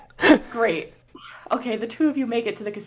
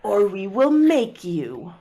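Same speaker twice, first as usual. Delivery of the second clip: menacing elves; 2 semitones higher, much slower than usual. Acted. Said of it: "they're like".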